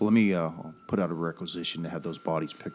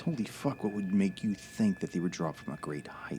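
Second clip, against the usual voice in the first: shocked whisper; 4 dB quieter than usual. Acted. Shocked agent whispers on phone.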